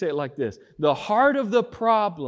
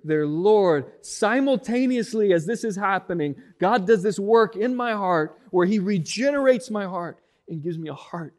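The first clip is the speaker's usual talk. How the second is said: louder, building sermon voice; full-force preaching; 6 semitones higher, 6 dB louder than usual. Acted. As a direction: preach it, rising to a cry.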